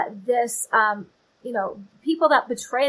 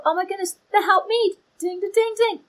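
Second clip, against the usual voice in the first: 1 mock eager helper; 8 semitones higher, faster than usual. Women called on as helpers.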